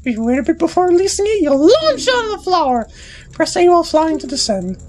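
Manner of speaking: high, indignant fairy scolding; bossy fairy. Acted. Tatl blaming Deku boy for losing her brother, high and indignant. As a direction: snap at him like a bratty little fairy. Tatl gives tutorial instructions.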